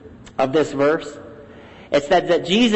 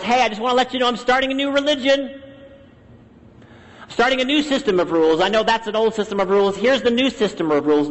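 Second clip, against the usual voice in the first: fast, higher-pitched casual pitch; mock announcement; 4 semitones higher, faster than usual. Preacher voicing what Jesus did not tell his followers, mock announcement. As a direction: rattle it off like a breezy announcement.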